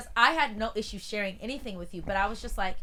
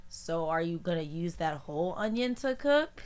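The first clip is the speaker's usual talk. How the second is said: hint at wanting some without asking; imitated roundabout ask; 3 semitones lower than usual. Imitating housemate hinting for some onion, roundabout tone. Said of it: "in this tone too".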